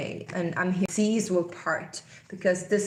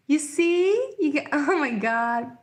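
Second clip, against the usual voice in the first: excited exclamation; 8 semitones higher than usual. Real, not acted. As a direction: exclaim high, overcome by the card. Vindicated by the card drawn.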